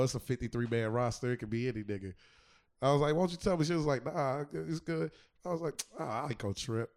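ordinary talk, nothing marked

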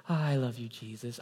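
soft, dainty pretend weeping that fades away; mock cute cry. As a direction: put on a sweet little teary voice, softly. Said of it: "really cute cries where it's just, like, a tear trickles".

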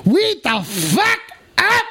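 hype catchphrase. Real, not acted.

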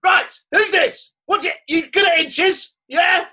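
high, sharp mock shout; high mock challenge.

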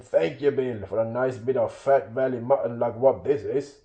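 troll telling off his mates; irritated troll. Acted. William scolding his greedy companions, irritated troll voice. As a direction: scold them in a rustic troll voice.

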